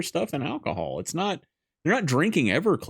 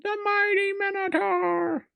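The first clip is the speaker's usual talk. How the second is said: high, slow grand announcement; announcer voice; slower than usual. Pretend. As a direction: announce it like a trailer. Announcing a character.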